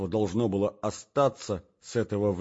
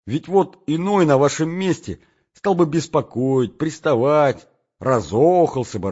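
put-on bright, loud young woman's voice, raised; Nastenka's eager voice; 4 semitones higher, 9 dB louder than usual. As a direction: speak as an excited girl in love. Настенька говорит, голос героини. (звонкий, взволнованный голос Настеньки)

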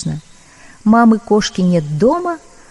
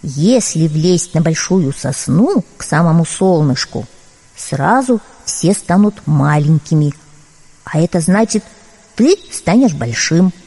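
bear cub voice; 4 semitones lower than usual. Acted. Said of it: "задумался медвежонок".

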